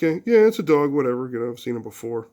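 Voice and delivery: put-on mildly unimpressed kid; conservatism. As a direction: brush it off, fading out by the end.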